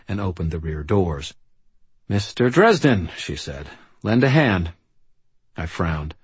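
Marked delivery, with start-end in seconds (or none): 2.1-3.1 brisk, high commanding woman; bossy mother voice. Acted. Charity bosses Harry around. 4.0-4.7 bossy mother voice. Acted. Charity bosses Harry around.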